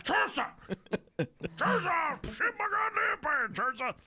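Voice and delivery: hammed-up desperate scream; mock wailing holler. Husband hollering for wife from stall, mock wailing scream.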